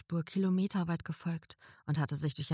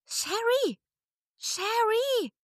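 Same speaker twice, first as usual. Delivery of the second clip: high, louder call from outside; 7 dB louder, much slower than usual. A narrator's reading. Friend calling Sherry from outside, louder call. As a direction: keep calling her name across the distance. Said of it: "rief eine wohlbekannte Stimme".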